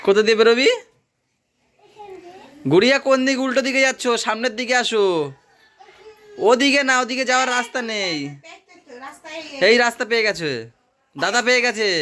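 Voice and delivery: high, loud guiding call. Real, not acted. Guiding child out of net.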